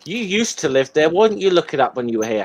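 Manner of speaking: high-pitched bantering counter; playful, protesting retort; retaliating comeback. Real, not acted. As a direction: throw it straight back, pitch up, quickening. Throws the challenge back in banter.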